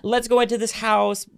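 over-the-top sweet realtor welcome; gushing realtor greeting. Retold or imitated. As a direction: gush at the clients like a salesy best friend.

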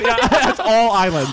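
laughing while speaking. Real, not acted. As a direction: giggle through the line. Laughing through words.

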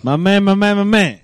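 calling out. Real, not acted. Calling out loudly.

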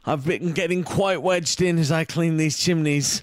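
put-on lightly done Cockney British accent; light mock British accent. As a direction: keep up the British chimney sweep bit. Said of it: "He's a British guy".

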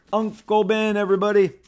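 high, loud mock-dramatic announcement; ta-da, the big reveal; excited reveal. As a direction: unveil it like a punchline. Big reveal of Uncle Ben joke.

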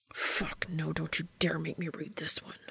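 hissed unvoiced whisper; through gritted teeth. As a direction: hiss it through clenched teeth. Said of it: "Dean hissed through gritted teeth".

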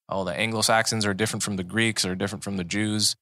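a hint of a Southern US accent. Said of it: "I don't know why I'm doing a Southern accent".

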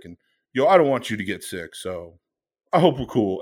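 a hint of a tender coworker apology; sincere apology. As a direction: gently make peace, meaning it.

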